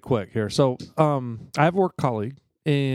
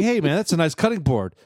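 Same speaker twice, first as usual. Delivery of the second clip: big guy's gruff tone; 4 semitones higher than usual. Retold or imitated. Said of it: "But he said it just like that".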